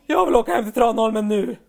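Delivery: put-on loud, whining child voice; mock kid insisting on going home; whiny demand.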